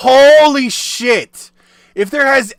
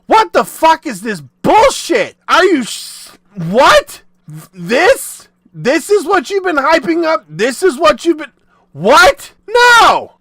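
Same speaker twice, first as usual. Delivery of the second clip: outraged fan; 6 semitones higher, 3 dB louder than usual. Retold or imitated. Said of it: "your entire fan base goes".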